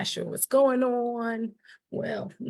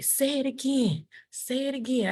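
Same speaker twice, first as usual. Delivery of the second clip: teacher's prompt; 5 semitones higher than usual. Retold or imitated. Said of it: "then he would say".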